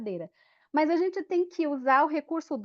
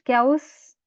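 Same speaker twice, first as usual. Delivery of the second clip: snake hiss; 7 dB louder than usual. Shown as a demonstration. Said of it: "o som da serpente".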